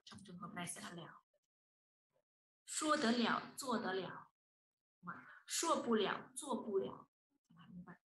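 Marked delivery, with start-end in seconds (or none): 2.7-4.1 "lẻo" said as full liǎo, not neutral le; teacher demo: end on "lẻo" as liǎo; pronounced liǎo. Shown as a demonstration. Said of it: "mà mình đọc là lẻo". 5.5-7.1 "lẻo" said as full liǎo, not neutral le; teacher demo: end on "lẻo" as liǎo; pronounced liǎo. Shown as a demonstration. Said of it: "mà mình đọc là lẻo".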